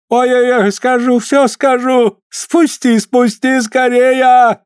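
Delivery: high wailing plea under torture, slow on the last words; pained pleading cry. Acted. Tortured healer begging the executioner to let go. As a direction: cry out for mercy, dragging the words. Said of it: "руки опять захрустели".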